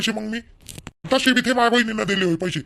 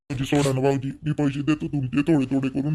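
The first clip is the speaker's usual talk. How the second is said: pleading brother; 7 semitones lower than usual. Acted. Younger brother begs brother-in-law.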